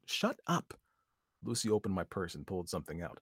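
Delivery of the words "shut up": high snapped shout; sharp shout. Acted. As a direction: bark it out. Lucy snaps.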